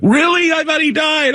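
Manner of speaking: high, astonished squeak of disbelief; surprised fan. Retold or imitated. Fan hears the guest is alive, squeaks high in shock. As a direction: gasp it out like you can't believe it. Fan's retold surprised reply.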